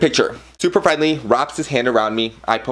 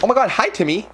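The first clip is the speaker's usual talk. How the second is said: high-pitched starstruck hello; imitated fan excitement, pitched way up; excited fan greeting; 10 semitones higher than usual. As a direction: re-enact gushing at a celebrity. Re-enacts greeting the star as fan.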